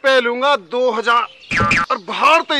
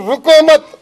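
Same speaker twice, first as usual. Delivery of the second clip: raised-voice berating of subordinates; exasperated commanding shout; 2 semitones higher than usual. Acted. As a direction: urge them on, shouting in frustration. Officer berates men, urging beating on.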